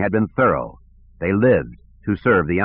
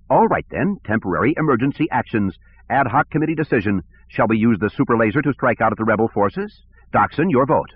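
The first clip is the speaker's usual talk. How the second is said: lightly voiced petty director, higher; peevish, a touch higher; whiny bureaucrat; 3 semitones higher than usual. Sivron voice.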